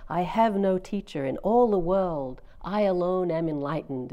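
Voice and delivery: a touch of a proud proclamation; bold pronouncement. Retold or imitated. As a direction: announce it like a declaration to the world. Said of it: "makes his bold pronouncement".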